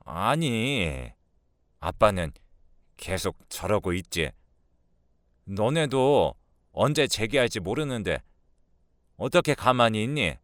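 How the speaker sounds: lightly voiced older woman, aggrieved; a touch of exasperated self-defence; defensive mother-in-law. Mother justifies herself.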